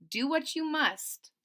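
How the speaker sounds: steady, slow and unafraid; quiet calm reply. Acted. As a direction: answer him calmly and slowly. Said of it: "Missus Parks quietly replied".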